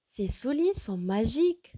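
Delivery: "souliers" lifted, "magiques" loud and rising; exclamative. Shown as a demonstration. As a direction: exclaim it with wonder, lifting "magiques". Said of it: "j'exprime un sentiment".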